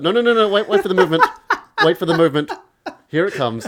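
high, loud, eager imitation of dad; mock excited dad. Guest imitates dad insisting he wait for the movement, high and loud. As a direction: urgently hush the room for the big moment. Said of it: "He's like".

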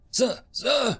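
high urgent call of sir; shouting. A narrator's reading. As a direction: call out sharply for attention. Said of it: "shouted the tech".

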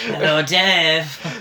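slow mock Eastern European accent; slow, drawn-out put-on Eastern European accent. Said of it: "That's what you were saying".

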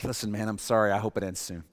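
awkwardly backing out of the deal; sheepish refusal. Pretend. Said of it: "I'd be like".

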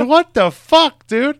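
high, loud and slow disbelieving outburst; outraged headliner. Retold or imitated. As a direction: yell it at the host in slow disbelief. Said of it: "And he, he goes".

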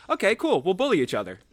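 squeaky, high-pitched quoted voice; high mock quote. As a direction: put on a high silly voice. Quoting hosts agreeing.

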